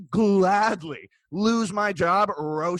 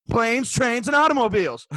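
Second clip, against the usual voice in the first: raised, emphatic mock quote; mock declaration; 3 semitones higher, 4 dB louder than usual. Server mocking a customer's nonsense, emphatic. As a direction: announce the nonsense as if it were an argument.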